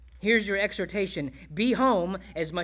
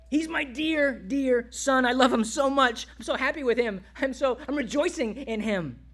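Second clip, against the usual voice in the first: higher, joyful gushing; delighted father; 5 semitones higher than usual. Acted. God the Father rejoicing in his dear Son, delighted gushing. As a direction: gush with a proud father's delight.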